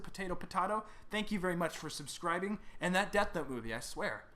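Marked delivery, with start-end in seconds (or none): 0.0-0.8 "Potato Potato" as po-TAY-to, po-TAH-to; two pronunciations. Shown as a demonstration. Host shrugging off a name, Potato said TAY then TAH. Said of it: "however you wanna pronounce it".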